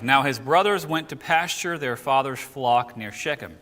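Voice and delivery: measured, emphatic verse reading; scripture reading. Acted. Teacher reading Genesis to a study group, scripture reading. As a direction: read the verse out clearly to the group.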